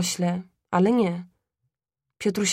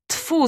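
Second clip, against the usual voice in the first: higher-pitched disgusted spit; spitting "tfu"; 9 semitones higher than usual. A narrator's reading. Father spits at the neighbour's talk, disgusted. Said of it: "splunął ojciec".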